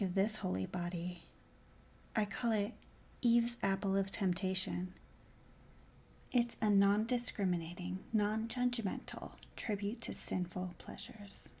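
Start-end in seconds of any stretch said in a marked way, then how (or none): 2.1-11.5 breathy, unvoiced sultry whisper; seductive whisper. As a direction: whisper it close to his ear.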